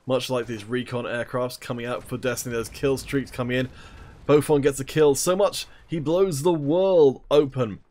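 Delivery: energetic esports caster call; play-by-play commentary. Acted. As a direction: call the match live, building hype.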